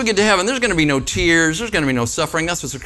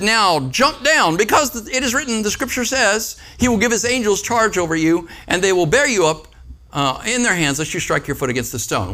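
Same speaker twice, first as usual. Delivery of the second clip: Satan tempting; 5 semitones higher than usual. Retold or imitated. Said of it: "had him stand there and said".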